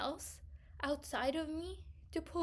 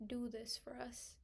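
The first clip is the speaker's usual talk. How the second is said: slow, voiceless mimicking whisper; mock whispered demand; 5 dB quieter than usual. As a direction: whisper their request back, mocking it. Mocking coworkers' demand.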